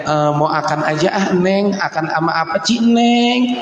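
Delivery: put-on "mau akan aja" with lisped childish sounds; lisping baby talk. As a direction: lisp "akan ama apa" like a lovesick husband. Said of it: "Ngomong kagak cadel, gini cadel-cadelin". (bicara cadel manja)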